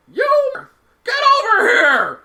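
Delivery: loud, high-pitched mock shout; imitated yelling mom. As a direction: holler like a mother calling her kid over. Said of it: "this lady yelling at her kid".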